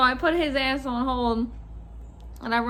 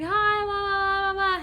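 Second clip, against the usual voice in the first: imitated phone greeting; 9 semitones higher than usual. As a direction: imitate the manager's high phone chirp. Manager's phone voice, retold.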